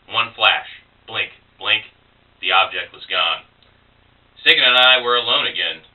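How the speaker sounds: dramatic poem reading with spaced-out phrases; poem recital. Acted. Poet reads an early poem about a friend to listeners, dramatic recital. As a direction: recite it in short phrases, letting repeated words hang between pauses.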